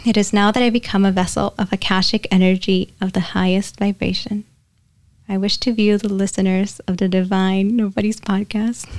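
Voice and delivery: even, measured invocation; recited prayer. Real, not acted. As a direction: recite it like an opening prayer, on a level pitch. Recites her channeling prayer.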